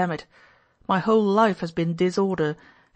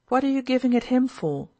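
higher-pitched, testy objection; irritable; 5 semitones higher than usual. Acted. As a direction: cut in with mild annoyance. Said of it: "cried Pyotr Ilyitch irritably".

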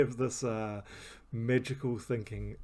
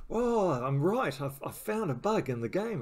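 higher, louder and slow at first, thrilled to be right; retold excitement; 6 semitones higher, 4 dB louder than usual. Gamer retelling his thrill at finding a game bug, excited. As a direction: gleefully announce a discovered bug. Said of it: "I got really excited".

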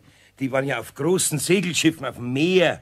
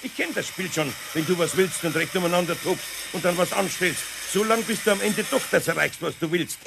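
raised, exasperated lecture; stern scolding; 7 semitones higher than usual. Acted. Eder scolding Pumuckl for his tantrum, stern. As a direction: scold the kobold firmly.

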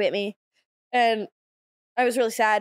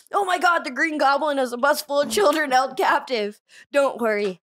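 hammed-up superhero bit; 2 semitones higher than usual. Comic acting out her superhero bit, hammed up. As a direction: sell the Dog Woman act out. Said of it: "you can't all laugh at it".

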